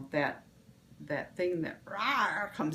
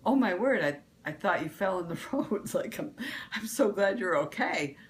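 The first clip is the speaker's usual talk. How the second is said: mean it kindly, only a little raised; relieved concern. Retold or imitated. Explaining to viewers what she really meant to her husband, mildly concerned and relieved. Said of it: "my snap wasn't that I was angry".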